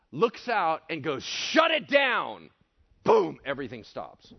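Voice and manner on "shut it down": high, loud, slow order; commanding shout. Acted. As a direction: order the storm to stop, drawing out each word. Acted command to the storm.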